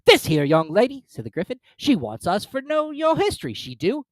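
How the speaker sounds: loud, high gruff creature; hammed-up Gryphon; rough Gryphon voice. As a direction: boom it out like a rowdy beast.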